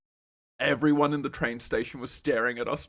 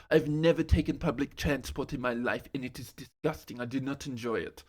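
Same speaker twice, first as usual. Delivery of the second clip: mock French accent. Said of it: "a French accent ... mimic her yelling at me".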